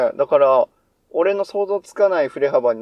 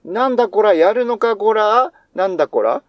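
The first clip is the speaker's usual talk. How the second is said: japanese delinquent tough talk; 3 semitones higher than usual. Retold or imitated. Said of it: "ヤンキー五七五五六みたいなのも".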